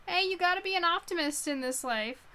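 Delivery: high, loud quip breaking into laughter; amused aside. Real, not acted. Reader joking about an over-cheerful character, amused and laughing. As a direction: toss it out through a laugh.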